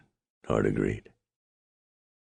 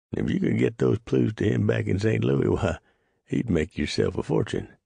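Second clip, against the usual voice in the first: Clyde; 10 semitones higher than usual. Acted. Clyde voiced, higher.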